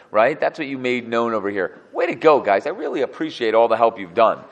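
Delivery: a touch of sarcastic congratulation; sarcastic praise. Retold or imitated. Elihu sarcastically thanking the friends, mock praise. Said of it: "This is pure sarcasm".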